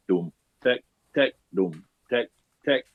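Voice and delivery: dum low and deep, tek short and light; drum syllables. Shown as a demonstration. Teacher sounds out the drum strokes to the class. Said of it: "the first note is the deep note".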